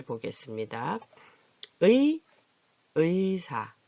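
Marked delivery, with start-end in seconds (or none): 1.8-3.7 의 said slowly as a full ui glide; full diphthong 의. Shown as a demonstration. Teacher models 의 at the start of a word, carefully pronounced. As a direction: sound out the 의 of 의사 in full. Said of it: "아까 의가 앞에 나올 때는 의로 나왔죠".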